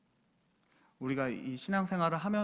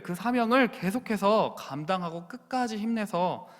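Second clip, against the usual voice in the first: Paul to Timothy, loud then hushed; Paul encouraging; 3 semitones higher, 5 dB louder than usual. Acted. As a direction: urge him on, then whisper the promise. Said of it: "사랑하는 아들 디모데야".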